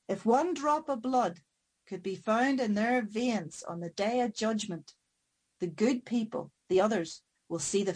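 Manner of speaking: solemn corpse. Acted. Corpse gives the solemn answer.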